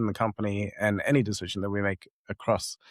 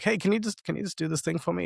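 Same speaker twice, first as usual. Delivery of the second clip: much higher, sweetly pleading ask; wheedling client; 8 semitones higher than usual. Retold or imitated. A client sweetly pleading for a quick favour, pitched high. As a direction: coax a small favour out of them.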